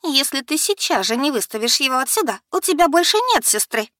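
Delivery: very high, loud threat; в ярости; furious ultimatum. Acted. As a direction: throw the last threat at her sister.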